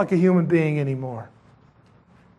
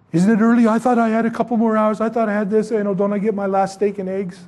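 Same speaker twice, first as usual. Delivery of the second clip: lightly acted, slightly raised plea to the guard; protesting prisoner; 3 semitones higher, faster than usual. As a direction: run the protests together as a stalling prisoner.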